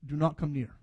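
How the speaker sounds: soft, gentle calling of a name; tender, affectionate. Acted. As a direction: call softly and tenderly, letting each phrase fall. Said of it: "God affectionately and so tenderly says".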